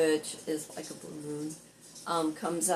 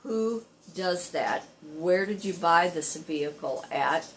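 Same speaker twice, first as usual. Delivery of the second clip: retold astonishment. Repair shop guy reacting to the car's story, retold astonishment. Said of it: "was going to fall over".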